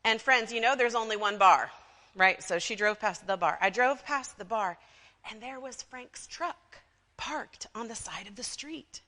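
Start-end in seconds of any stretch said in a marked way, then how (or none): 3.6-9.0 gossip's mock accent, dropping to a confiding hush; Mildred's put-on accent. Church gossip reporting a parked truck, put-on accent. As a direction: slip into a put-on accent, then soften. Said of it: "I don't know why Mildred has an accent".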